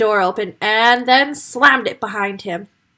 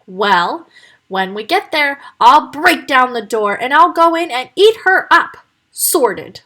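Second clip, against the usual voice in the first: firm; 3 semitones higher, 5 dB louder than usual. Acted. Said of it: "said the wolf firmly".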